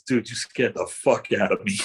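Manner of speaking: slow, earnest retelling; a hint of a shaken co-star, said slowly; serious. Zach after the take telling him he was scared, slow and serious. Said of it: "with his eyes real serious".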